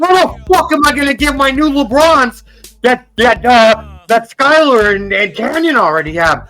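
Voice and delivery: put-on bratty kid tantrum. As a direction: scream at Mom in a spoiled tantrum. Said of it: "all I can hear in my head is".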